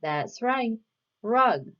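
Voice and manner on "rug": "rug" with a lengthened opening R; "rug" given clearly as the answer word; emphasised R sound. Shown as a demonstration. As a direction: lean on the R at the start of "rug". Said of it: "Which word has the R sound?".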